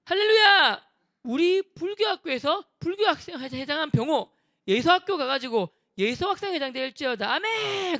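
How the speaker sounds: loud high hammed-up preacher proclamation; mock preacher. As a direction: shout it like a revival preacher. Kid preaching mock blessing.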